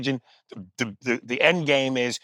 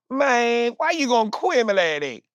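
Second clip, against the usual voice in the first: mumbled Southern slur; 10 semitones higher than usual. Retold or imitated. Mocking the rapper's slurred Southern answer, high and mumbled. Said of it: "Here's what he said".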